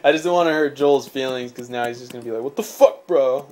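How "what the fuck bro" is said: bad Australian accent. Imitating an offended Australian friend's reaction, bad Australian accent. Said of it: "I don't know how to do an Australian accent".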